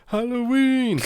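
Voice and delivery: high joyful cry; gleeful exclaim. Real, not acted. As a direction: cheer out the reveal. Reveals favorite holiday.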